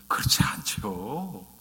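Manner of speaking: slow hushed whisper to the congregation; whispered answer. Real, not acted. Preacher whispers the answer to his own question, hushed. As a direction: drop to a breathy whisper, as if sharing a secret.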